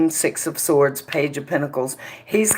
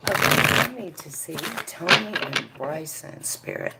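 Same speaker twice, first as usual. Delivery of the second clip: hushed calling; 5 dB quieter than usual. Real, not acted. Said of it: "calls the spirit, hushed".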